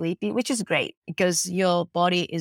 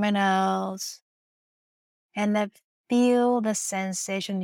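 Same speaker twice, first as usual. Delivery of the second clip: guided massage instructions. Acted. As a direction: lead them gently through each move. Guides them to feel results.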